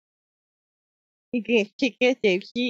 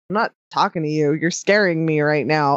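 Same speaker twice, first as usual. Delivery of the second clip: scared reply; 9 semitones lower than usual. Retold or imitated. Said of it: "I'd be like".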